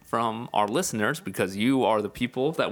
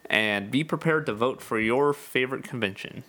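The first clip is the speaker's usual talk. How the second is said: newscaster voice. Acted. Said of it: "That was the speaker's newscaster voice".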